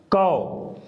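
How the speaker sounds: कौ said round and open; model syllable. Shown as a demonstration. Teacher to students, demonstrating कौ. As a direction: sound out कौ. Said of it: "क्या होगा?".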